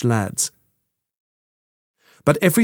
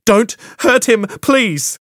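high, louder pleading; begging; 9 semitones higher, 3 dB louder, slower than usual. Acted. Quintana begging soldiers not to hurt Froy, high pleading. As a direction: beg them to spare him. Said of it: "Quintana begged".

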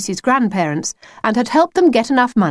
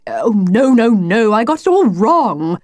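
mildly dismayed self-correction; flustered cry; 3 semitones higher, 3 dB louder than usual. Acted. The wolf sees he muddled his line, mildly flustered cry. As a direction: catch your own blunder, a touch flustered. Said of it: "he cried".

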